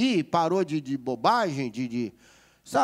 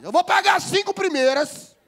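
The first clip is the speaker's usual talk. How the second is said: stern promise; 12 semitones higher, 6 dB louder than usual. Retold or imitated. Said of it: "O mais velho dá aquele sermão".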